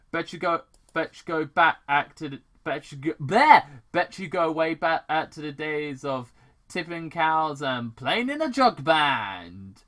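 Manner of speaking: loud sneering villain taunt; mocking taunt. Robotnik taunting Tom about cows and jug band, loud sneer. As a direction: rub it in with contempt.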